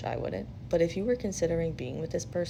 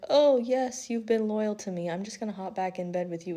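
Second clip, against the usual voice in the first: mock smug husband; 3 semitones higher than usual. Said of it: "come home and be like".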